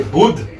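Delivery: "bud" with the d between palate and teeth; Sanskrit bud. Shown as a demonstration. Teacher giving the right "bud" once again. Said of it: "that's what we say".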